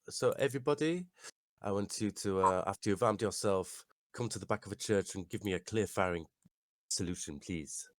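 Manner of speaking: commanding the congregation; rally the crowd as their priest; in-character command. Acted. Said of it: "because I play acted it".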